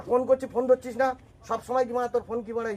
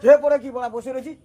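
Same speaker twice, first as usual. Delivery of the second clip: loud, irritated comeback; raised voice in a quarrel; angry yelling; 5 dB louder than usual. Acted. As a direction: throw the question back loudly. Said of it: "তুমি চিল্লাচ্ছ আবার।".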